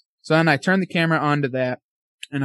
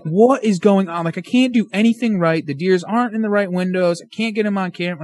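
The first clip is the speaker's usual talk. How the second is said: higher-pitched exasperated venting; retold frustration; 5 semitones higher than usual. Hunter venting about missed chances at deer, frustrated. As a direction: replay being fed up, pitch up. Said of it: "I was getting so mad".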